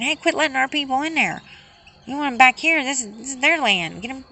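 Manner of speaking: mock shout from other countries. Foreign countries telling America to send people back, mock shout. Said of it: "not standing up and saying".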